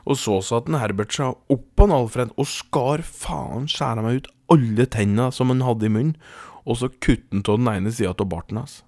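animated storytelling in a steady measured flow; story narration. A narrator's reading. Podcast host tells listeners a tall tale, storytelling.

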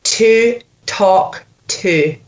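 slow, separated Scottish model; Scottish accent. Shown as a demonstration. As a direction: model each word in Scottish. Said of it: "You're Scottish all the way through".

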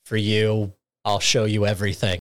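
low, mildly ominous retold promise. Swimmer letting his coach in, mildly ominous imitation. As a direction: drop the pitch and measure it out, imitating a veiled threat. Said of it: "Ryo ominously is like".

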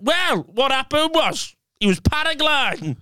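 high-pitched mum imitation; mum's voice. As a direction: mimic mum breaking the news, slowing at the end. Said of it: "And she went".

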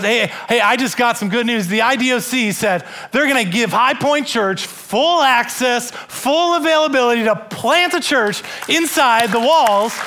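retold warden, thrilled and rising to a shout; excited good news. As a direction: burst out with the big news like the warden did.

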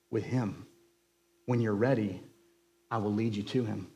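hint of a patient wizard; lightly voiced Gandalf, calm. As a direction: Gandalf gently explaining the new reckoning. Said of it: "said Gandalf".

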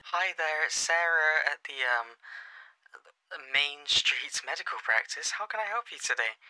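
sweet polite phone receptionist; gentle front desk greeting; soft receptionist voice. Retold or imitated. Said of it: "starts really, like, softly".

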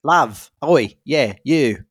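Australian attempt slipping into British; botched Australian accent. Shown as a demonstration. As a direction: try Australian, land on British by mistake. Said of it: "Oh no, that's British".

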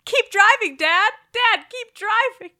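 high, urgent mock yell; hammed-up frantic pleading; screaming son. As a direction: imitate a boy yelling at Dad. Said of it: "the son is just screaming".

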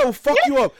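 high, loud mock threat; retold shouting. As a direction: shout it as if gone mad. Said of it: "So I started shouting".

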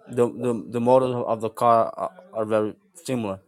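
talking with a mouth full of food; words round a bite of food, mouth full. Real, not acted. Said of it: "I'm eating something".

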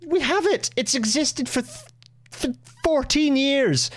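high-pitched, incredulous laughing outburst; exasperated frustration. Real, not acted. Host reacting to minister's bullet-train trip, frustrated and incredulous. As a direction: voice leaps right up in real exasperated disbelief. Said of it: "that level of frustration".

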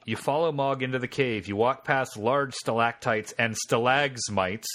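measured game-master narration; story narration. A narrator's reading. Game master reading the scene to the player, story narration. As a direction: read the adventure text out as story.

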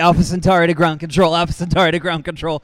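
urgent mayday over the radio; sci fi communicator. Pretend. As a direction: call it in like a pilot in trouble. Mock mayday call to ground.

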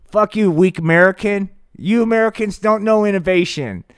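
a hint of a sneering dictator; Kim Jong-un. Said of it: "Kim Jong-un goes".

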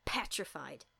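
hushed spooky whisper. Retold or imitated. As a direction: breathe the word like a ghost story. Telling the scary scene.

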